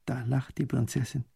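ordinary delivery, nothing marked

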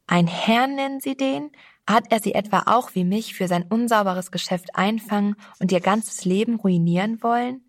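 put-on a young girl bristling with scorn; angry young girl. Girl angrily correcting the narrator about the stranger. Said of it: "blickte mich mit ihren blauen Augen zornig an".

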